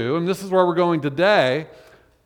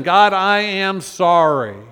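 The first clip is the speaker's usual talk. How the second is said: earnest prayer; 2 semitones higher, 4 dB louder, slower than usual. Acted. Prayer voiced slowly.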